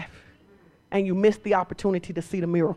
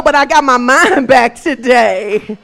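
laughing shout; 2 semitones higher, 9 dB louder, slower than usual. Acted. Mock testimony, laughing shout.

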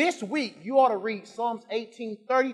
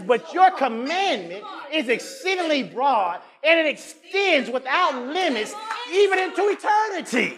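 building scripture read; 4 semitones higher than usual. Acted. Preacher reading scripture to the church, rising to a shout. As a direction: build the verse up until it rings out.

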